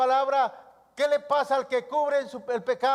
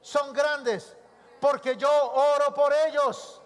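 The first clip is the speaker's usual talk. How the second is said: congregation declaration. Shown as a demonstration. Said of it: "Diga conmigo".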